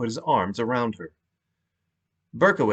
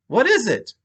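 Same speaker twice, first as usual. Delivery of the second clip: calling out; 12 semitones higher, 4 dB louder than usual. Acted. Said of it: "Rory called out".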